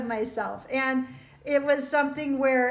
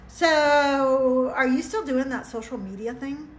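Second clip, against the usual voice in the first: rising, prying question with a loud opening "So"; ex's probing question; 3 dB louder than usual. Retold or imitated. Ex-husband probing her on a phone call, prying tone. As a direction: ask "still doing that social media thing" as a nosy, doubting question. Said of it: "his question to me was this".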